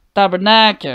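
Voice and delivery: loud, sharp Tabarnak; angry swearing. Real, not acted. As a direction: curse out in pain. Swearing after getting hurt.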